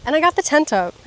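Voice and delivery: usual speaking voice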